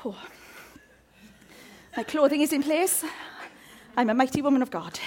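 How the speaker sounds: whispered self-talk; whispered affirmation to herself. Pretend. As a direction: breathe it out as a whisper. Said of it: "Have you all said".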